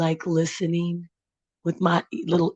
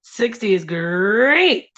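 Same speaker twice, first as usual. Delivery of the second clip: tiger voice; much slower than usual. Pretend. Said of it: "Sixty in my tiger voice".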